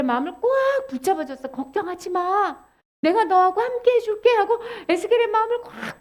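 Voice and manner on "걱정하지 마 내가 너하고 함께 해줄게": reassuring. Acted. God holding Ezekiel's heart, reassuring him. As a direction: soothe with a lightly acted promise.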